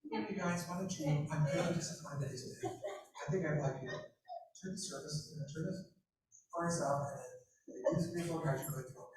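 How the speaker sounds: ironically soft, polite king's order; mock calm king. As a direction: play the furious king as absurdly gentle. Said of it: "he probably doesn't say it in a quiet voice".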